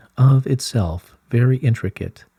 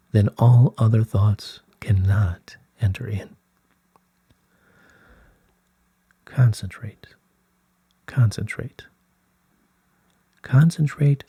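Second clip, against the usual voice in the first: meditative whisper. Acted. Guiding meditation, whispered instruction.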